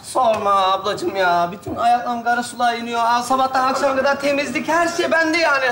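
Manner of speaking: weary robot pretending to be tired; rusty robot. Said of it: "robot taklidi yapacaksın abi".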